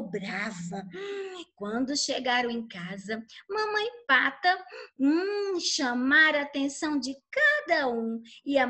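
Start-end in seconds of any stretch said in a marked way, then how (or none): none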